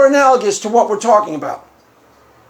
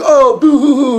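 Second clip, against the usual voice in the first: mock boo-hoo crying; 4 dB louder than usual. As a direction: fake sobbing to taunt. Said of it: "The kid starts crying".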